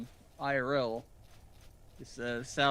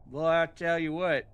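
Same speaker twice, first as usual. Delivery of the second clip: put-on country Southern accent, pitched up; 4 semitones higher, 4 dB louder than usual. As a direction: talk like a Southern country folk. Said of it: "Making fun of your southern accent?".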